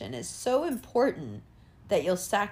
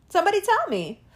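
insistent demand; 9 semitones higher, faster than usual. Real, not acted. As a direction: press them hard for an answer. Repeated rhetorical demand.

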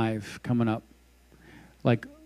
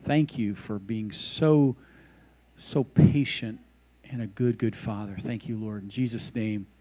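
closing prayer. Acted.

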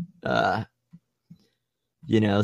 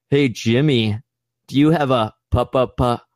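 mocking tease. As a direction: mimic his stutter to tease. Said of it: "We're like".

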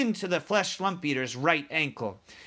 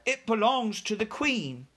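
put-on higher-pitched little girl's voice; Sophie; 6 semitones higher than usual. A narrator's reading. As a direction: explain in a lightly voiced girl's part. Sophie explains about the brooch.

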